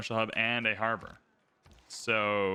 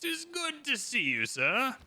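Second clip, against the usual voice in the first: put-on high, slow, old-fashioned courtly voice; hammed-up noble welcome; mock formal greeting; 11 semitones higher, much slower than usual. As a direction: greet him like a stately lord. Greeting a game leader in character.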